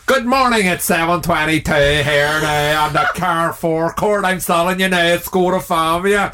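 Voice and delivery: hammed-up used car salesman patter; lightly put-on salesman impression, lifted at the start; Declan. Player mimicking his friend as a car salesman, hammed-up impression. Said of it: "So pretend you're Declan and you're a used car salesman".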